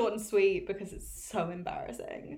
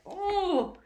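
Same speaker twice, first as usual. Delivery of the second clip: mock sympathetic friends; 4 semitones higher than usual. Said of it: "people are like".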